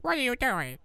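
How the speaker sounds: put-on high, shocked French accent. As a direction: squeal it like a snooty French chef. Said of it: "Except in French accent".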